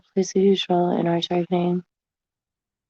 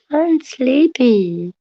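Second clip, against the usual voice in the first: slow sleepy; 3 semitones higher, much slower than usual. Shown as a demonstration. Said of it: "I'm sleepy repeated slower".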